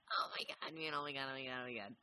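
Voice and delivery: whispered oh my god, oh my god. Shown as a demonstration. Trying out voices for the dude, whispered take. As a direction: drop to a breathless whisper. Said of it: "And then I'll go to, like".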